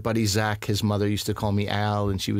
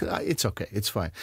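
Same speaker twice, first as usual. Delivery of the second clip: awkward hushed reply; 4 semitones lower, 6 dB quieter than usual. Retold or imitated. Retold awkward reply to boss.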